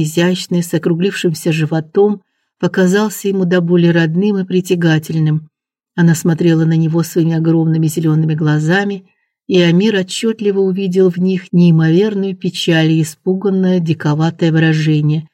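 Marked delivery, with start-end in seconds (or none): none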